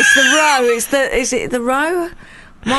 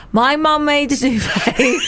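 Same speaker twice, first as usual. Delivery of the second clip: laughing. Real, not acted. Laughs at own silly guess.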